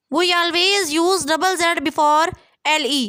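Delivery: spelling rule read slowly for students; slow dictation. Shown as a demonstration. Teacher to students reading the rule, slow dictation. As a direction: dictate each word slowly and evenly.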